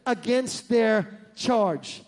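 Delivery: slow, reverent prayer; slow solemn prayer of forgiveness. Retold or imitated. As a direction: pray it slowly and earnestly. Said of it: "He prays the prayer".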